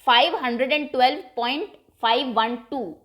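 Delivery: teacher's model reading with फ़ाइव वन टू spaced out; digits read separately. Shown as a demonstration. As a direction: pause after पॉइंट, then फ़ाइव, वन, टू one by one. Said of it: "आप इसको अलग-अलग पढ़ेंगे".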